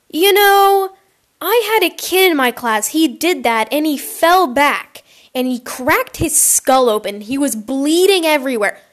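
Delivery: lightly voiced teacher telling a cautionary tale; imitating a teacher. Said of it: "no matter what teacher it was".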